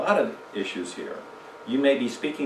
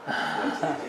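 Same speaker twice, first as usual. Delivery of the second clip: laughing; 4 dB quieter, slower than usual. Retold or imitated. Repeating uncle's phrase, laughing.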